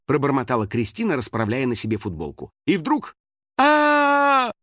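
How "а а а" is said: loud high scream; panicked scream. A narrator's reading. Girl screams as the spirit rams her, panicked. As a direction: scream in terror. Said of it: "в панике закричала".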